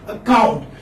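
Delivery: "Account" with the stress on "count"; teacher showing "Account" as a-COUNT; second-syllable stress. Shown as a demonstration. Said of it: "The second syllable is stress".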